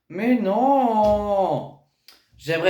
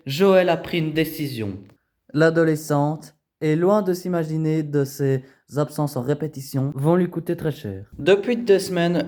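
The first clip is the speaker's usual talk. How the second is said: documentary narration. A narrator's reading. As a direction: set the scene like a reality show. Voice-over.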